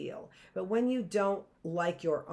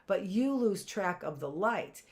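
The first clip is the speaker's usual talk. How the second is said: pleading beggar, pitched up high; old beggar; 3 semitones higher than usual. Retold or imitated. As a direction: beg with a lifted, clinging voice. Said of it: "he said".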